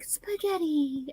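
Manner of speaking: slow, high, squeaky parrot word; cute parrot baby voice. Retold or imitated. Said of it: "this cute little baby voice".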